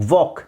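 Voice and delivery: "ವಾಕ್" said wawk, with no L sound; silent L. Shown as a demonstration. Teacher reviewing words for learners, silent L. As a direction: say "ವಾಕ್" leaving out the L. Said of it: "ಎಲ್ silent ಆಗಿರುತ್ತೆ".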